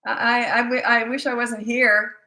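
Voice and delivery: hammed-up poor-me whine; mock self-pitying child. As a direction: pile on the fake misery. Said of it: "they'll try anything to get you".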